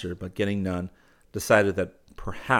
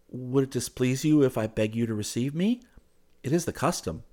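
higher, polite, careful plea; very gentle; 6 semitones higher than usual. A narrator's reading. Suitor asks her to receive him, gently. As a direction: ask with mild tenderness. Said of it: "very gently".

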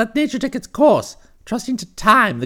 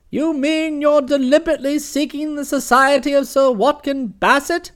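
louder, exasperated aunt; booming aunt scolding her nephew; imperious aunt; 4 semitones higher, 3 dB louder than usual. Acted. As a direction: tell him off like a hunting aunt. Aunt Dahlia berates Bertie.

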